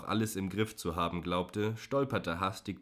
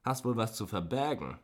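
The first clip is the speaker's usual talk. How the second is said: lightly voiced sneering man, higher; prying driver; 4 semitones higher than usual. A narrator's reading. Driver probing the woman, mild sneer. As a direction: needle her with a suspicious question. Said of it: "hakte er nach".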